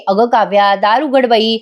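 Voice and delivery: lightly acted sweet-talk laced with taunts; sweet taunting. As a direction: imitate sugary coaxing with a dig. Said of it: "गोड गोड पण बोलते आणि काव्याला taunt पण मारते".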